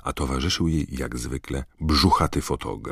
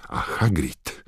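furious. Acted. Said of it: "Tak rozwścieczoną widzieli ją".

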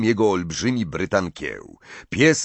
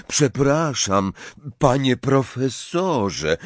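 "panie profesorze" drawn out with emphasis; pointed stress on PANIE PROFESORZE; 5 semitones higher, slower than usual. A narrator's reading. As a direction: lean deliberately on "panie profesorze". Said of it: "wymawiając z naciskiem dwa ostatnie słowa".

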